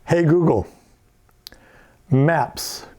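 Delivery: loud clear command to the assistant. Shown as a demonstration. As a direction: call out the wake word. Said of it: "and now if I say".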